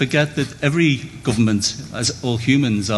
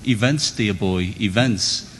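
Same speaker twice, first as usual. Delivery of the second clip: slow, unhurried upper-class British drawl; lightly imitating an aristocratic Prime Minister; patrician tone; slower than usual. Debater quoting Harold Macmillan to the audience, mild patrician imitation. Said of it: "he said in his patrician tone".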